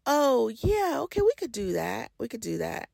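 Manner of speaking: noncommittal yes, trailing off softly; insincere agreement. Retold or imitated. Person avoiding saying no, insincere agreement. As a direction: agree politely without meaning it, fading away. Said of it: "they lead you on and say".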